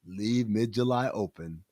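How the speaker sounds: slow and deliberate, evenly weighted; slow, pointed announcement. Real, not acted. Host repeating a hint to listeners, slow and pointed. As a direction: spell out the hint slowly. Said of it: "I'ma say it to you like that".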